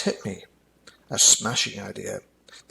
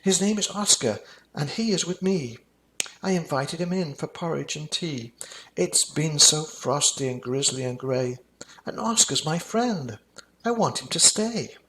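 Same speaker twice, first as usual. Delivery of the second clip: put-on pleading child; 5 semitones higher than usual.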